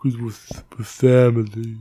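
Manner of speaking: a hint of Dom Toretto; mock solemn family line; Vin Diesel impression. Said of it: "With family".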